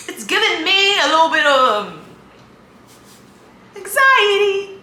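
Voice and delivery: squeaky high voice; high-pitched voice. Real, not acted. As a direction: let the voice jump up high. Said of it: "ma voix aiguë, elle est revenue".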